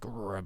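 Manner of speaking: short playful "rrr" growl; little rolled growl; mock intense growl. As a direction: growl briefly to mimic intensity. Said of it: "not, like, intense".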